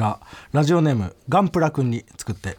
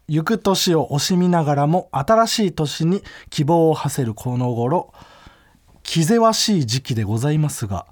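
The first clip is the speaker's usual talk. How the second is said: formal letter reading. Acted. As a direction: read it like a stiff formal letter. Reads formal letter greeting.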